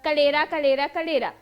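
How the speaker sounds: कलेरा repeated with r and l swapped from करेला; child's mispronunciation. Retold or imitated. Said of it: "हमेशा वो अशुद्ध उच्चारण करेगा".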